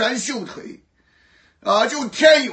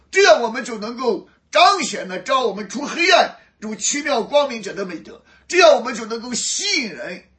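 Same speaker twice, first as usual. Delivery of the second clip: preaching at full force; 4 dB louder than usual. Acted.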